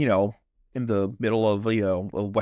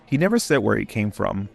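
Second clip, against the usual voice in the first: measured documentary-style storytelling; recounting a mystery in a controlled read; story narration. A narrator's reading. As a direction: narrate a grim legend, pausing between short phrases. Reads the story over music.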